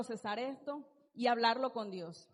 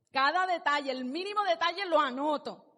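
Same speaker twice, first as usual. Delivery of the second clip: mock grudge-keeper; 3 semitones higher, 5 dB louder than usual. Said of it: "llevándole la cuenta".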